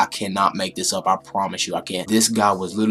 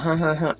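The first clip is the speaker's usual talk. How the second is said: imitated chuckle; 7 semitones higher than usual. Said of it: "give me a little chuckle".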